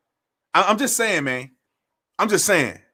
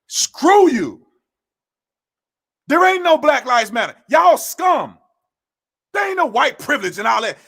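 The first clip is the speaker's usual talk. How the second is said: angry shout. Real, not acted. Ranting against protesters, an angry shout. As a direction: yell it as a rant. Ranting at Black Lives Matter.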